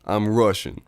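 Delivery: badly faked Russian accent, off the mark. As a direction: miss the Russian accent by a continent. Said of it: "You're a continent off".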